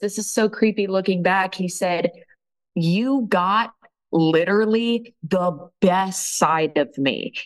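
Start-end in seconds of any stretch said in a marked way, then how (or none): 2.7-7.3 acted, slow, words weighted with anger. Retelling what a man said to you: imitating his angry words. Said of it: "he said with anger in his voice".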